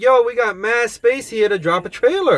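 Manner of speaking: retold eager appeal. Retelling own pitch to tower.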